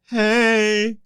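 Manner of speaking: very high, slow and drawn-out greeting; awkward mock greeting. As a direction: stretch each word out in a silly high voice. Imagines greeting pro runners, terrified.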